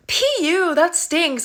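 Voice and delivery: high-pitched mock disgust, easing down; exaggerated, taunting retold disgust. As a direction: imitate an adult making a show of a stink. Imitates yard duty's loud disgust.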